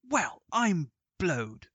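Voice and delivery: slow, drawn-out "Well, I'm blowed!"; baffled golfer, slowly; astonished. Acted. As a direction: stretch out the disbelief. Ball vanished into dip.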